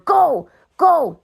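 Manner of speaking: curt order. A narrator's reading. Michael orders Luther out.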